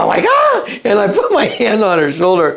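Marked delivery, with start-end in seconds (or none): 0.3-0.7 startled yelp. Retold or imitated.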